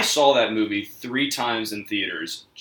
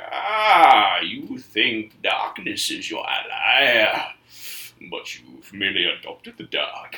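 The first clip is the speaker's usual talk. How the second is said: Bane impression; slower than usual. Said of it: "it's almost like".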